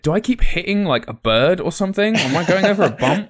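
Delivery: high, loud puzzled listener voice; confused driver. Retold or imitated. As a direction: play a baffled driver hearing bumps. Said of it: "they're gonna be like".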